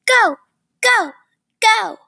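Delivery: high, punchy urging, each word separate; cousin cheering. Acted. Cousin urging the nervous zipliner to jump, high cheering. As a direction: imitate a cousin egging someone on. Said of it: "I could hear my cousin saying".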